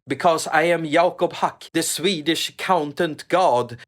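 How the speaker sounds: put-on lightly done Central European accent; mock Central European accent. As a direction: boast as a Central European god. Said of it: "this is not how Swedes talk".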